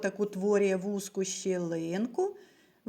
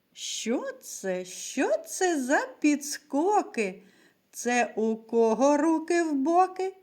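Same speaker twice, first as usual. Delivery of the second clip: rhyme recited. Acted. Teacher reciting a rhyme to little pupils, playful. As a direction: lively rhyme for small children, a touch sing-song.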